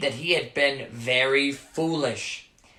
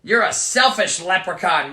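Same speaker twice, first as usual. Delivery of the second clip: put-on mild angry boy; 2 semitones higher, 5 dB louder than usual. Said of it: "Michael said angrily".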